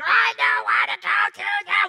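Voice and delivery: imitating a screaming child; mock screaming kid. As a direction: wail it like a child flopping on the floor.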